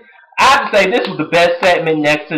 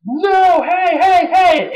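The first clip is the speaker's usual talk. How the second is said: Daniel Bryan; 11 semitones higher, much slower than usual. Retold or imitated. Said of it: "Daniel Bryan's like".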